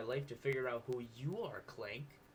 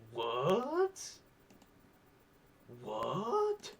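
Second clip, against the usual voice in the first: high, louder shocked cry; shocked what; 7 semitones higher, 7 dB louder than usual. Real, not acted. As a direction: blurt out in disbelief. Shocked by Clank's alien reveal.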